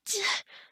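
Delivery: short huff of exertion; sharp strained puff; effort sigh. Acted. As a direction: huff out while hauling someone heavy. Straining to lift an unconscious person.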